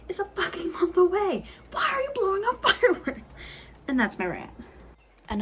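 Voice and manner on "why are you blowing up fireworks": laughing exasperation. Real, not acted. Exasperated rant at neighbors.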